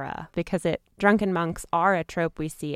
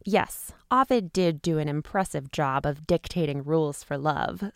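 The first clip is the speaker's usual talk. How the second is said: put-on drunken monk. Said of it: "Gonna do my best drunken monk impression".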